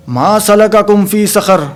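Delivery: slow, chanted Arabic verse; Quranic recitation. Shown as a demonstration. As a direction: recite it slowly like a Qur'an reading. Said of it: "कौल को नकल करता है". ("मा सलकाकुम फी सक़र" धीमे, तिलावत के अंदाज़ में)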